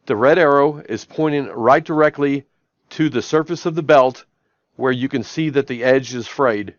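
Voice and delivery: flat, even robotic dictation. Shown as a demonstration. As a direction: speak like a robot to the mic. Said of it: "I'm gonna talk like a robot".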